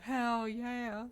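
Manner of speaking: excited cheer. Real, not acted. Greeting a new viewer.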